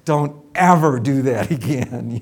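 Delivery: imitating an upset surgeon's warning; stern rebuke. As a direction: scold the assistant sharply. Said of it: "the neurosurgeon goes".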